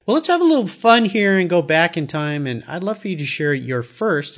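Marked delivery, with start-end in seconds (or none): 3.5-4.4 "first" picked out with emphasis; stress on FIRST. Real, not acted. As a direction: lean on the word "first". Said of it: "I'll emphasize the word first".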